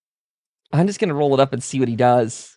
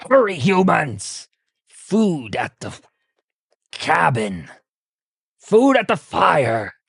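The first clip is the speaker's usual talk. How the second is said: super mutant Chop; 3 semitones higher, slower than usual. Acted. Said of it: "He goes".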